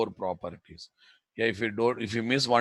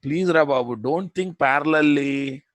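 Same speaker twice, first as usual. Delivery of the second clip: exasperated scolding; 3 semitones higher, 6 dB louder than usual. Real, not acted. Instructor scolding inattentive students.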